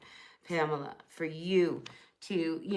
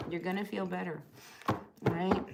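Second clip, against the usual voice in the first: soft reassurance; 5 dB quieter than usual. Real, not acted. Repeated softly to reassure Pamela.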